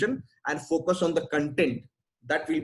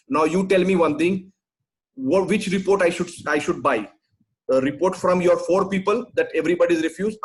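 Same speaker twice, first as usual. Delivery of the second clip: louder, exasperated lecturing; irritated; 5 dB louder than usual. Real, not acted. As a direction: push back hard at the complaint. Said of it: "Sir, please don't be angry".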